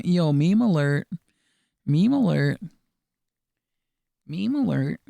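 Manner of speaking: loud, slow mock alert call; hype callout. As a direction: announce it like a siren. Calling out a meme alert.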